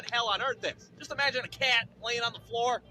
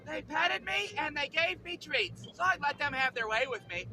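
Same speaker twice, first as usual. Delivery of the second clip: happy dog; 5 semitones higher than usual. Acted. Prancing dog after surgery, high happy voice. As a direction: voice a blissfully untroubled dog. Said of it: "here comes Zeke prancing out like nothing even happened".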